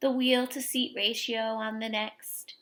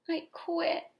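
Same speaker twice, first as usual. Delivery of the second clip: frustrated quitting; 7 semitones higher than usual. Acted. Girl gives up in anger.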